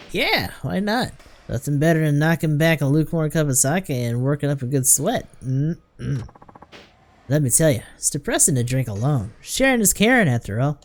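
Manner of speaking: lightly voiced folksy sake lover; jovial drinker. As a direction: coax them into sharing a drink.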